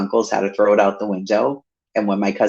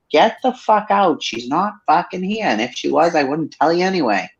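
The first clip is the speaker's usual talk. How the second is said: mock Nana telling off; 7 semitones higher than usual. Nana chasing the mother out of the bar, high feisty mimicry. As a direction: bark it like a tiny tough granny. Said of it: "My nana be like".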